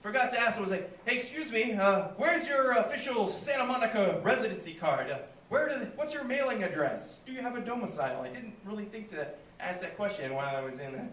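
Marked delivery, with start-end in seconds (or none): 1.0-8.2 high-pitched mock-official enquiry; sarcastic politeness. Comic pretending to question his attacker about residency, sarcastic politeness. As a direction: ask with exaggerated, higher-pitched courtesy.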